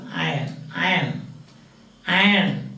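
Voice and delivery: "iron" said eye-un; silent R. Shown as a demonstration. Teacher correcting students on what is supposed to be said, silent R. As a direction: leave the R out of "iron". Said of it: "There is no R pronunciation".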